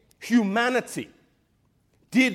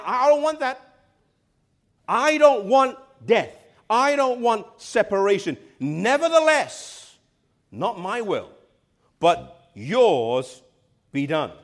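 anguished Jesus; 2 semitones higher, 4 dB louder, slower than usual. Acted. Jesus in Gethsemane begging the Father, anguished then yielding. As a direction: beg like a man facing death, then yield.

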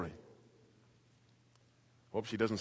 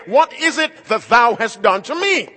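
loud accusing cry; 12 semitones higher, 16 dB louder than usual. Acted. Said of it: "congregations have a right to say".

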